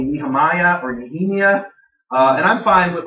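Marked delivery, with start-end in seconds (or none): 0.0-1.6 Nehemiah twice, each time pronounced differently; others' variant pronunciations. Retold or imitated. Teacher showing how others say their name, variant pronunciations. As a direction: list two variant ways of saying Nehemiah. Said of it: "Others call me".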